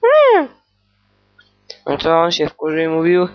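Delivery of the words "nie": a shrill high squeaked no, much louder; piercing squeaky no. Acted. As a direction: squeal the refusal. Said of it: "Nie mów takim piszczącym głosem".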